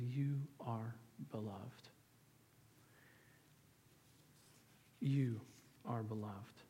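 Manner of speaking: soft, slow and low, with long pauses; tender quote. Retold or imitated. Preacher passing God's words to the congregation, tender. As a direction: let each word land gently, hushed and unhurried.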